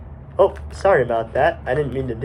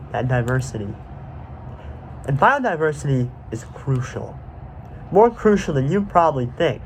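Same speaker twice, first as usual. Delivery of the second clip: dramatic trailer narration; 4 dB quieter than usual. Acted. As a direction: pause gravely between phrases, like a trailer. Movie-trailer style narration.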